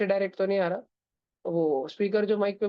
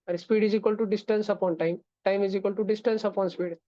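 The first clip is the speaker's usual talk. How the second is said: slow dictation; much slower than usual. Shown as a demonstration. Dictating formula to students.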